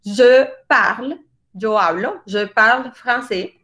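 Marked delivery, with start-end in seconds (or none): 0.0-1.2 je parle with final e silent, slow; French je parle. Shown as a demonstration. Teacher modelling spoken French for the class. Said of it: "Por ejemplo". 2.3-3.5 je parle français in a French accent, slow. Shown as a demonstration. Teacher modelling a French sentence for students. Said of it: "Por ejemplo".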